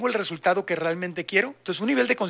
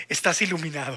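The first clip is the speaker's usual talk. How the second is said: amused; 2 semitones lower than usual. Real, not acted. Joking about enlightenment, laughing.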